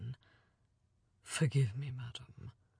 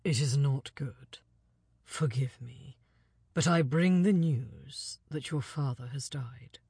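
low, half-whispered envoy; grave hushed news; 4 semitones lower than usual. Acted. Envoy telling Alina her father died, hushed and grave. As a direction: breathe out the terrible news. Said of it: "he said gravely".

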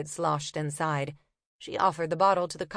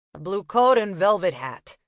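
louder, curt copper; impatient copper; 6 dB louder than usual. Acted. Copper describing the thief, curt. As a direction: rattle it off impatiently.

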